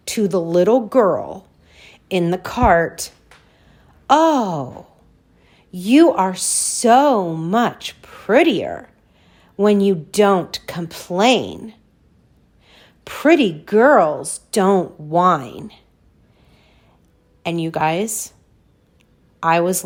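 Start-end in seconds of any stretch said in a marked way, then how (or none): 4.1-15.7 a hint of a syrupy old lady, slow; drawn-out, sweetly preachy old woman; lightly voiced old lady. Quoting older lady scolding child.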